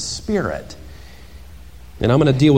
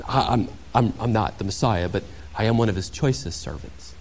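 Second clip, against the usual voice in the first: coy, fishing for praise, trailing softer; mock false modesty; 3 semitones lower, 7 dB quieter than usual. John imagined answering the priests, coyly falsely modest. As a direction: play at humble while flattered. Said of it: "He could have answered".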